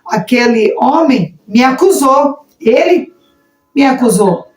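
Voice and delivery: pointed accusation, singling out "ele"; emphatic accusation. Shown as a demonstration. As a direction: lift "ele" sharply, then let "me acusou" land. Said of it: "Olha a diferença".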